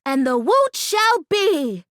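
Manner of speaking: slow, big-breath declaration of "woot"; measured ceremonial chant; solemn incantation. Shown as a demonstration. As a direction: proclaim it like a spell. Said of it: "we say with a big breath".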